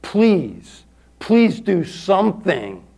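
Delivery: slow, drawn-out retold plea; pleading. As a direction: beg with weight on each word. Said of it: "I just pleaded, prayed to him".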